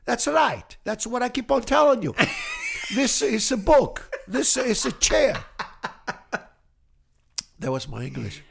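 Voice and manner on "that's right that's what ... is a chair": higher and louder, laughing insistence; father insisting loudly. Retold or imitated. Father loudly insisting he taught it right. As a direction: hammer it home like the proud dad who knows best. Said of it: "He said".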